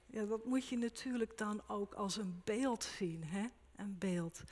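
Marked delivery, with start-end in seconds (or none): none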